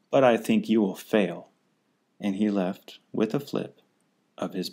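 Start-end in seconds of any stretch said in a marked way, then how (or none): 0.1-1.5 a touch of a sneer. Acted. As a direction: taunt him lightly. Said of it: "sneered the bird".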